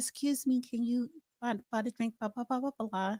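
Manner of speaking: hushed, soft, coaxing, seductive half-whisper. Showing how to get a free drink, half-whispering in someone's ear: soft seductive half-whisper. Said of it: "soft tone, whisper in their ear".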